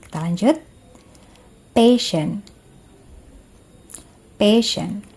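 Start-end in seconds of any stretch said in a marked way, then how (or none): 1.7-2.4 careful, emphatic single-word model for repeating; pronunciation model. Shown as a demonstration. Teacher models a word for students to repeat, carefully articulated. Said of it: "Saya ucapkan, lalu kalian coba ikuti". 4.3-5.1 careful, emphatic single-word model for repeating; pronunciation model. Shown as a demonstration. Teacher models a word for students to repeat, carefully articulated. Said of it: "Saya ucapkan, lalu kalian coba ikuti".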